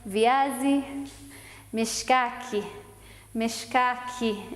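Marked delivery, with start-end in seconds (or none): 1.7-4.5 Mishkaki with the ka syllable stressed; slow, lean on ka in Mishkaki. Shown as a demonstration. Swahili teacher demonstrating, Mishkaki stressed on ka. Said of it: "Emphasis on ka".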